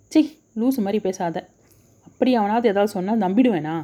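a touch of sharp irritation; irritated retort. Acted. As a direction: brush her off, mildly annoyed. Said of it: "கடுகடுத்தான்". (லேசான எரிச்சலுடன் கடிந்து பேசுதல்)

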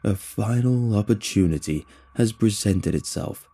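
mildly booming alien rally call; lightly voiced alien preacher, eager; eager alien proclamation. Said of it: "rapidly and eagerly".

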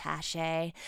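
Hachette said "ha-SHAY"; French pronunciation. Shown as a demonstration. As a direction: settle on Hachette with sh and silent t. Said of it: "it's just pronounced Hachette".

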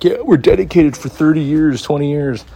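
hammed-up corporate promise; mock corporate boast. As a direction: parody the proud company. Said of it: "They're like".

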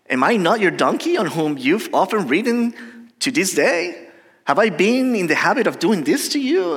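lightly voiced questioning donkey, pitch swooping; talking donkey. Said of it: "the donkey said to Balaam".

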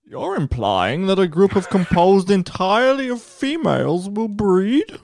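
Batman voice. Acted. Batman role in movie parody.

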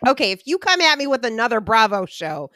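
loud, firm mock warning; emphatic retold comeback. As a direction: lay down the law, half-joking.

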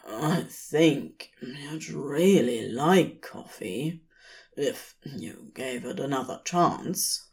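a hint of a laid-back demon; lazy demon. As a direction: coax him lightly toward coffee. Crowley voiced in story.

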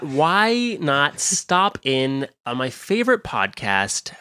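self-important celebrity guest, lightly voiced; bad star impression, drawing out the show's name; Jack Black. Celebrity flattering his favorite podcast, slow impersonation. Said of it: "was that Jack Black in the hallway".

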